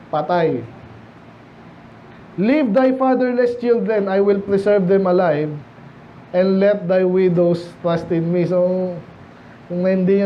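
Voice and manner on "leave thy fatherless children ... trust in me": slow, deliberate Bible reading; scripture reading. Acted. Preacher reading verse to the congregation, slow and solemn. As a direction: read the verse slowly and solemnly.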